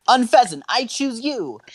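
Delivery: high, spirited trainer's call; calling out a Pokémon. Acted. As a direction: send it into battle. Trainer sends out Pokémon, acted.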